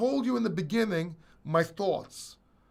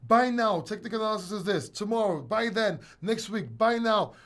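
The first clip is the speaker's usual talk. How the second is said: mocking YouTubers; 4 semitones higher, 3 dB louder than usual. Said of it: "All these YouTubers say".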